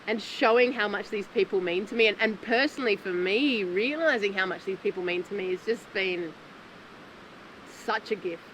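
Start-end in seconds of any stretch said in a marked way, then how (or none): 3.6-8.4 tearing up. Real, not acted. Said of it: "I'm tearing up just thinking about it".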